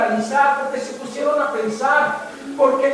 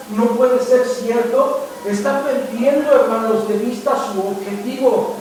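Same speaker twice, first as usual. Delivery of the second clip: forceful preaching; 3 dB louder than usual. Acted. Pastor warning his congregation, loud and emphatic. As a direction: hammer the warning home.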